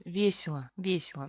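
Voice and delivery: весело as VYE-si-la, easy and unforced; relaxed reduced pronunciation. Shown as a demonstration. Teacher relaxing the mouth, reduced pronunciation. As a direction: say весело loosely, ending in a short A. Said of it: "Simplemente relajamos la boca y pronunciamos".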